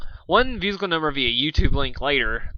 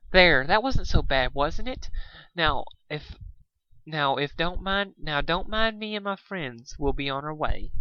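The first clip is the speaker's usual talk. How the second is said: soothing Fluttershy; 3 semitones higher than usual. Acted.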